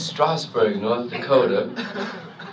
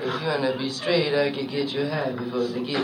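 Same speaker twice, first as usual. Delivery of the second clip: hipster jazz trumpeter. Acted. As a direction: lay back and jive like a hip musician. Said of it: "the new trumpet player".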